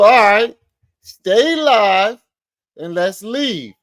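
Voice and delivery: high-pitched retold challenge; mock quoting. Retelling the challenge, incredulous.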